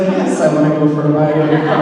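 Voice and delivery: laughing through a quick, eager yes; mock-eager, giggling acceptance. Retelling her instant yes to the Tesla ride, laughing.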